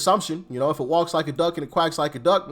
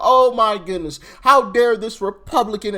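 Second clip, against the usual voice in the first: mock outrage; 4 semitones higher, 6 dB louder than usual. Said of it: "they would say Republican to try to put some emphasis on it".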